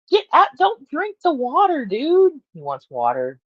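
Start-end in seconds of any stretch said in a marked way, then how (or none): 0.1-2.3 high, loud call to stop the cat; sharp call-out. Real, not acted. Telling the cat off at the tank with a high loud call. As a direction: yell at the cat to get out.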